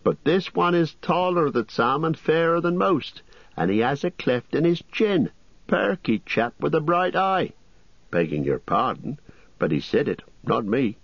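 fussy innkeeper. Acted. Landlord voiced, high.

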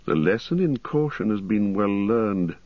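lightly voiced grim ranger; a hint of a stern, wary ranger; Strider, grim.

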